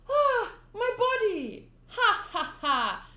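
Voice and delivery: very high, loud, slow cry then laugh; loud dismayed cry. Acted. Clown wailing for his body, high and loud. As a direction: wail over the lost body.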